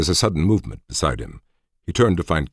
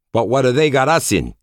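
sour; 11 semitones higher, 6 dB louder than usual. A narrator's reading. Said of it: "added Dominguez sourly".

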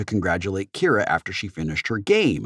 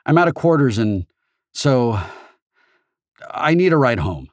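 put-on urgent teen boy; 4 semitones higher, 4 dB louder than usual. A narrator's reading. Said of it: "urgently told Og".

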